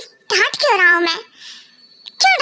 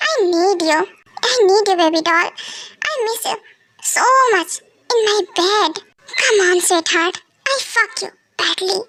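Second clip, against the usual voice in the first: slow seductive murmur; much slower than usual. Acted. Husband seduces wife, very slow.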